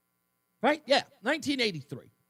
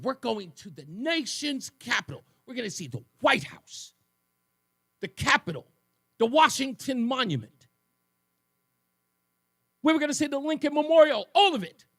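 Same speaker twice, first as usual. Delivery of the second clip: put-on excited kid; 5 semitones higher than usual. Kid excitedly listing sights on bus.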